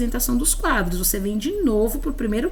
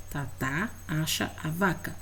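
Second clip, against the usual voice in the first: leitura do aluno; 4 semitones lower, 9 dB quieter than usual. Retold or imitated.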